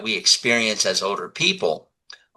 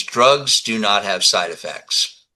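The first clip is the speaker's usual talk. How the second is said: slow, deliberate mock-authoritative statement; emphatic declaration; slower than usual. Doctor addressing viewers in a video, emphatic declaration. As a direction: spell it out slowly like the video doctor.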